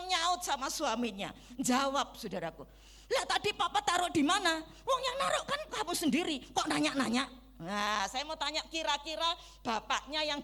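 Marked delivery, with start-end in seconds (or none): 3.1-7.3 tired wife snapping back, pitch jumping up fast, half-laughing; quick, higher, irritated comeback to her husband; snappy high-pitched retort. Retold or imitated. Tired wife snaps at husband asking for his book, high irritated retort. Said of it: "dijawab model seperti itu dengan intonasi tinggi".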